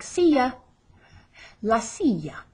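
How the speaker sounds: "silla" with a y glide for the ll; teacher's model "silla", ll sounded as y; double L as Y. Shown as a demonstration. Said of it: "the double L is like a Y".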